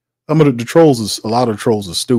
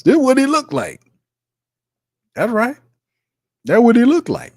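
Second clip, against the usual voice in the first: mock fed-up voice; 12 semitones higher than usual. Showing a fed up face.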